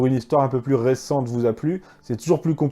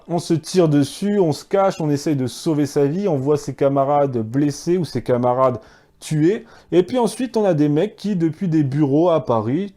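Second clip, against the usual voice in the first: getting worked up. Real, not acted. History host defending soldiers under fire, getting worked up. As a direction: get carried away arguing heatedly. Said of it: "je m'énerve, là".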